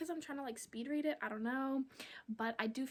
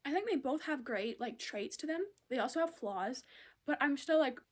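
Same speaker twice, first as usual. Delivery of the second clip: talking while chewing gum; words round a wad of gum. Real, not acted. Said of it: "It's really hard talking when you have gum in your mouth".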